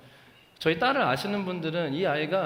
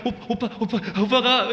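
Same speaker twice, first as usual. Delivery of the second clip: mock sobbing child, higher, with a laugh; hammed-up whimper of a six-year-old; imitating child crying; 5 semitones higher, 5 dB louder than usual. Pastor mimicking his daughter blaming her brother in mock sobs. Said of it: "이렇게 울어요".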